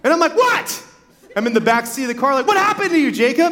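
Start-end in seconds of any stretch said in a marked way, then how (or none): 0.4-0.8 high, baffled what; bewildered kid blurting from the back seat; sudden high confused question; startled what. Retold or imitated. 2.5-3.5 high alarmed question to his brother; worried kid blurting from the back seat; higher, surprised and concerned. Retold or imitated. Kid asks brother in car.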